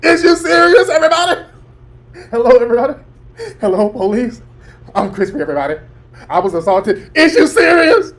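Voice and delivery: high mock wail to everyone around; mocking Crispy. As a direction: ham up a crybaby calling for help. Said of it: "when this nigga was yelling, "Is you serious?".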